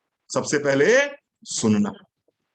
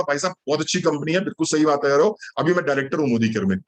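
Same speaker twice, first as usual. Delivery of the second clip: a hint of a smug prospect, rattled off lower and fast; lightly voiced prospect, fast; 5 semitones lower, faster than usual. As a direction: slip in the reveal quickly, half smug. Prospect's reply in the story. (हल्का सा आत्मसंतुष्ट ग्राहक, तेज़ और नीचे सुर में)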